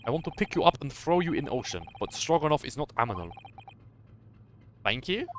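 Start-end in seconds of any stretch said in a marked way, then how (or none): 0.0-3.3 lightly voiced sailor. The crewman proudly corrects Naruhodo, lightly voiced Russian sailor. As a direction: announce your name with pride, a hint of Russian.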